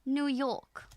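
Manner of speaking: light New York accent, "Yawk". Shown as a demonstration. Practising how to do a New York accent, lightly accented. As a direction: try a little New York colouring. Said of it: "How to do a New York accent".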